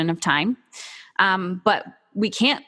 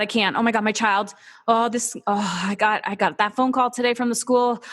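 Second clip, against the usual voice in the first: mock panic; 2 semitones higher than usual. Mocking a parent stuck in a lack mindset, hammed-up panic. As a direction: play the overwhelmed parent spiralling into panic. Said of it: "when you live in a lack mindset of".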